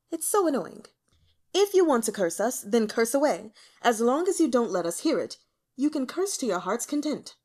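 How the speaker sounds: put-on impatient, loud young emperor; annoyed emperor. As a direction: brush them off with irritation. Emperor's annoyed speech to nobles.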